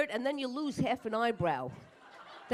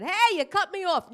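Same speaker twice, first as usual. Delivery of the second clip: higher, louder mock yell out the window; road rage yell; 8 semitones higher, 8 dB louder than usual. To a driver through the window, a loud mock road-rage yell. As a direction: bark at the other driver. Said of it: "rolled down my window and said".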